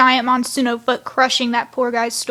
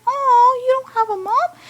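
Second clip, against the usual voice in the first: shocked disbelief; 12 semitones higher than usual. Retold or imitated. Chase shocked Six has no mom.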